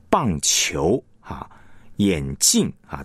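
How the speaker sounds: 棒球 and 眼镜 weighted on 球 and 镜; stress on second syllable. Shown as a demonstration. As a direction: lean on 球 in 棒球 and 镜 in 眼镜. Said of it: "它的重音是放在后面".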